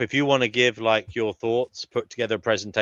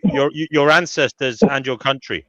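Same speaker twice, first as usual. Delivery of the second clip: mock outrage; 3 semitones higher, 3 dB louder than usual. Host roasting a regular guest's audio, mock outrage. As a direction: condemn him grandly, in jest. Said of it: "J E knows I'm only joking".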